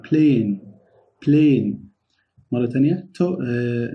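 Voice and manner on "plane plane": plane with a crisp, clearly voiced P. Shown as a demonstration. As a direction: land the P of plane firmly. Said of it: "وركز على حرف ال P".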